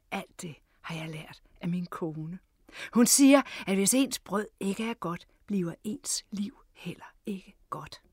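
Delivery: understated pride, lifting in the middle; proud. A narrator's reading. Jonas tells his guest about his wife's bread wisdom, mildly proud. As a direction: say it with a touch of pride. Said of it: "tilføjede med stolthed i stemmen".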